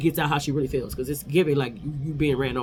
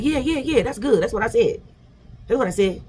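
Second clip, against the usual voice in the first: mocking; 5 semitones higher than usual. Mocking Phaedra convincing herself.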